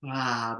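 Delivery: short open sigh on ah; loose-jawed ah. Shown as a demonstration. Leader showing a relaxed jaw, loose open ah. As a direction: drop the jaw and release an ah. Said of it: "just relax the jaw".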